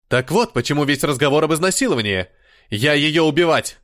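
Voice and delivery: быстрее, с нарастающей яростью; рявкни угрозу убить её; гневная угроза. Acted. Рейджин грозит убить. (Рейджин в ярости грозит убить Адалану)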